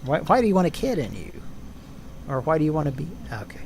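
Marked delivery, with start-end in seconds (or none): 0.0-1.3 fast, higher mock interrogation; Chris Hansen impression. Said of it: "is what Chris Hansen says". 2.4-3.1 Chris Hansen impression. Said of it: "is what Chris Hansen says".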